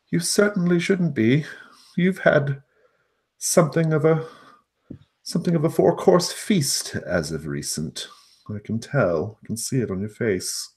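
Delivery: high, loud, quick gnome, friendly; a chirpy gnome talking to a cat. Acted.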